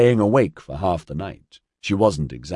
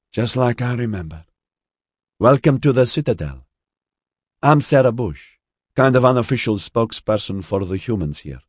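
put-on higher, strong northern Mediterranean accent; 5 semitones higher, 3 dB louder than usual. A narrator's reading. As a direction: welcome them in a raised Mediterranean accent. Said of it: "a strong northern Mediterranean accent".

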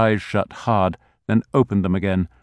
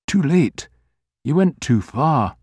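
small inner voice; 5 semitones higher than usual. A narrator's reading. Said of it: "small voice inside his head".

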